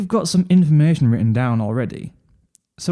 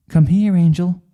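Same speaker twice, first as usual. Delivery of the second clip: calling; 5 semitones higher, 5 dB louder than usual. A narrator's reading. Calls bunny to her.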